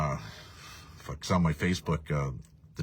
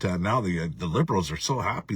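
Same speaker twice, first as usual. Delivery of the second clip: normal talking voice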